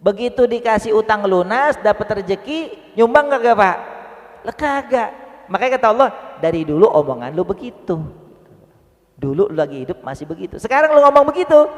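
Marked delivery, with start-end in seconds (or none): 4.5-11.7 stern rebuke. Acted. Allah scolding the broken promise.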